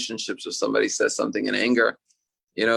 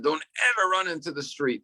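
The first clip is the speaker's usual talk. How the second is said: retold parental yell; 5 semitones higher than usual. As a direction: imitate a parent's emphatic warning, stressing "ever". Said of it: "our parents yelled at us".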